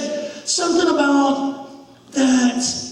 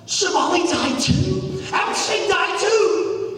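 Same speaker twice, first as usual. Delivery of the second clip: shocked disbelief; 4 semitones higher than usual. Acted. Boy shocked by second death.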